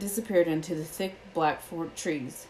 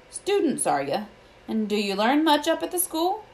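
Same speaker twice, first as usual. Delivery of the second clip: higher-pitched, solemn centaur voice; sorrowful centaur; 7 semitones higher, 4 dB louder than usual. A narrator's reading. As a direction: question them with a touch of sorrow. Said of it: "He had a deep, sorrowful voice".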